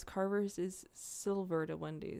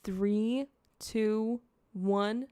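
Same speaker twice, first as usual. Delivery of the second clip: a louder, hyped countdown; 2 semitones higher, 6 dB louder, much slower than usual. Shown as a demonstration. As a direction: count down loud and emphatic. Countdown, second louder take.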